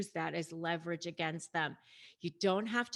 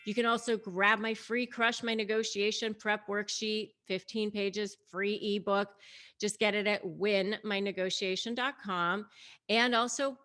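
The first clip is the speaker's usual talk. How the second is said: a louder, brighter sign-off asking viewers to subscribe; upbeat outro pitch; 3 semitones higher, 4 dB louder than usual. Acted. Vlogger urging viewers to like and subscribe, upbeat promo read. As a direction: sell the channel with energy. Channel outro call to action.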